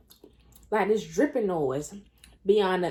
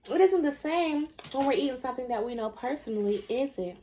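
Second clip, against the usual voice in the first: sarcastic; 3 semitones higher than usual. Retold or imitated. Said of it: "being so sarcastic".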